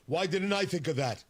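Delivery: a hint of old Vermont senator wondering aloud; Bernie Sanders impression. Host mimics Bernie Sanders marveling at tariffs, light impression. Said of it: "my Bernie is not bad".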